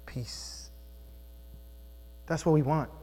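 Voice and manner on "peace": breathy whisper of "Peace"; hushed, reverent whisper. Shown as a demonstration. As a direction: breathe the word softly. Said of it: "guess what he brings?".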